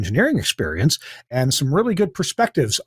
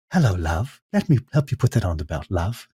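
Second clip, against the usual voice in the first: lower-voiced, friendly Irish lilt on "love"; lightly voiced helpful Dublin airport worker, lower; mock-kindly Irish security lady calling him love; imitating Irish security lady; 7 semitones lower than usual. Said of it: "lady looks at me and she says".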